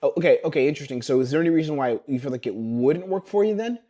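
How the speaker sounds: lightly surprised, curious question; genuine curiosity. Shown as a demonstration. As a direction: sound like you truly want to know. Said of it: "It has to be genuine curiosity".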